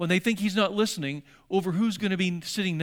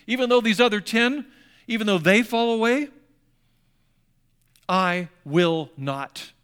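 bold declaration; 3 semitones higher, 6 dB louder than usual. Acted. Peter vowing to Jesus he will never fall away, loud and proud. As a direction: swear it out loud, chest puffed.

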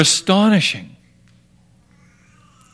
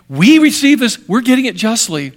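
emphatic declaration; 3 semitones higher than usual. Acted. Thief's confession emphatic.

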